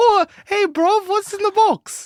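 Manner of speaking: very high put-on street-urchin voice. Joking about an orphan tapping someone's shoulder: victorian orphan voice. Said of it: "a Victorian orphan taps Brad Pitt on the shoulder".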